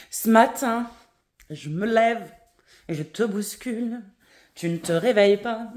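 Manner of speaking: tumbling out the story too excitedly; overexcited. Real, not acted. Telling viewers about her morning, overexcited. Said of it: "oh putain, faut que je me calme".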